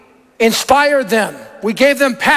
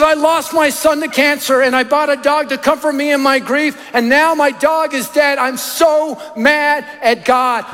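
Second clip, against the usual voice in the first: understated retelling of a tearful outburst; a touch of grieving complaint, stretched at the end; imitated tearful grief; 3 semitones higher than usual. Grieving woman explains losing son and dog, mildly tearful. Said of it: "she burst in tears".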